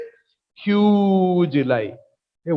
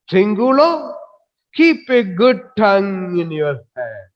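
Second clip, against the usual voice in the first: kingly rebuke; 3 semitones higher than usual. Acted. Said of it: "speaking like a king or god".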